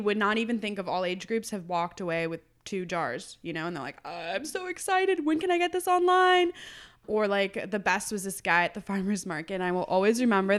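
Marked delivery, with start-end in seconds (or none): 4.0-6.5 mock-giddy, stretched squeal of delight; excited customer. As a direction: play a thrilled customer, pitched way up. Acting out thrilled customers.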